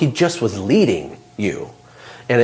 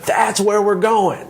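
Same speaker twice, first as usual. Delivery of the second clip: much higher, slow call, said once more; repeated mock scream; 10 semitones higher, slower than usual. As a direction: shout it down again from the treetop, drawn out. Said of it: "he screams down to the ground".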